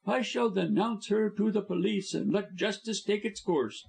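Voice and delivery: high contemptuous sneer; sneering villain. A narrator's reading. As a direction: sneer down at them. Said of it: "sneered Busham".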